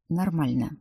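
one gloomy word. A narrator's reading. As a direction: say it sullenly, not meeting eyes. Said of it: "хмуро произнёс тот".

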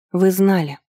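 understated hissed accusation; a touch of venom; angry hiss. A narrator's reading. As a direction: accuse with contained anger. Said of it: "зло прошипела я".

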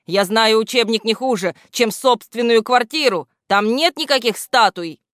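angry know-it-all; indignant. Acted. Грамотейка argues with the statue, indignant.

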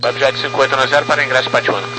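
over a crackly radio; distorted radio transmission; crackly military radio. Real, not acted. Pilot calling over the radio.

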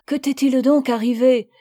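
mother anxiously asking her daughter; alarmed questioning. Acted. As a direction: demand to know what happened.

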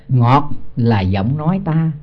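drawn-out chanted verse line; slow scripture chant; slow verse recitation. Acted. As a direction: intone it slowly like scripture.

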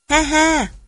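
high, smug villain's laugh; jackal's pleased-with-itself laugh; gloating laugh. A narrator's reading. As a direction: cackle in triumph. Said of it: "Chó rừng cười đắc chí".

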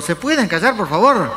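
high-pitched mock distressed plea; anguished. Woman begging noisy moviegoers to hush, anguished plea. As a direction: imitate a woman pleading in anguish. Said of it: "con voz angustiosa".

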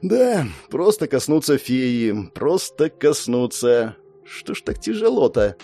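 slow, hesitant self-talk. Acted. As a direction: force the words out slowly. Steeling himself to touch.

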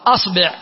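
أصبع said asbi', i after the b; a then i. Shown as a demonstration. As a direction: demonstrate أصبع as AS-BI'. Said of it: "والباء مثلثة".

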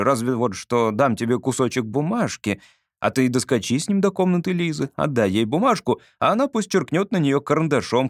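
ordinary delivery, nothing marked

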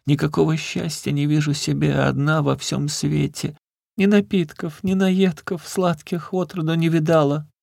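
put-on very high, pleading old crone voice; keen and beg like a frightened beggar woman; a pitiful high old woman's wail. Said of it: "отвечала старуха".

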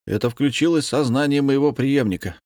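excitedly. A narrator's reading. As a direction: announce it with excitement. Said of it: "возбуждённо сообщил Павел".

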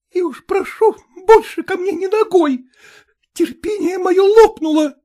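high, quavering woman's voice, fed up; trembling voice. A narrator's reading. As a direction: Malkova trembling as she turns back. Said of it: "с дрожанием в голосе произнесла". (дрожащим высоким голосом)

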